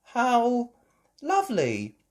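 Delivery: put-on mother pleased by children; smiling. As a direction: smile through the words.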